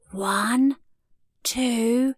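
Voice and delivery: hushed, suspenseful counting; whispered count. A narrator's reading. Maisie counts before jumping on the bed, whispered. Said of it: "whispered Maisie".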